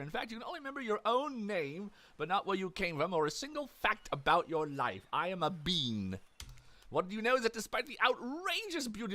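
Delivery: lively, swooping storyteller voice; theatrical game narration. Acted. Narrator tells the player about waking on a beach, theatrical narration. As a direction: narrate with mock-dramatic flourish.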